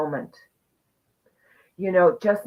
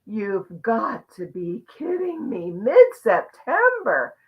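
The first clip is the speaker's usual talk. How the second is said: disbelief; 3 semitones higher, slower than usual. Retold or imitated. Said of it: "I went".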